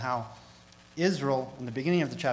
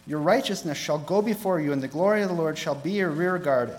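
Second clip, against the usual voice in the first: higher, louder, emphatic proclamation; forceful scripture reading; 4 semitones higher, 8 dB louder than usual. Acted. Preacher reads God's true fast to congregation, emphatic proclamation. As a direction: declaim each phrase like a preacher reading prophecy.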